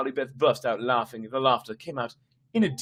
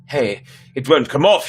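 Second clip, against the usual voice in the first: alarmed; 4 semitones higher, 5 dB louder than usual. Acted. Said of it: "she cried".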